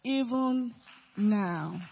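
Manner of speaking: "Even now" split, each word hit loud and separate; emphatic Even now. Shown as a demonstration. Preacher drives the theme home, each word punched loud. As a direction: punch "Even" then drop hard on "now".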